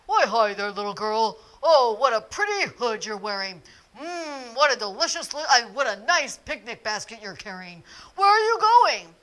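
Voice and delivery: a big bad wolf sweet-talking a child; sly wolf. Wolf sweet-talks the little girl on the path.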